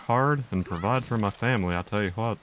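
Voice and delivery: earnest drawling cartoon dad; folksy, matter-of-fact self-defence; Hank Hill impression. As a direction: insist like a straight-laced family man. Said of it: "that's enough of Hank".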